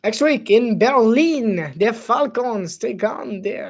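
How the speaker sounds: put-on announcer line in a light French accent. Streamer reading the game's schedule as a French-accented announcer. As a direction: read the matchup with a hint of French accent. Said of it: "that's a French accent".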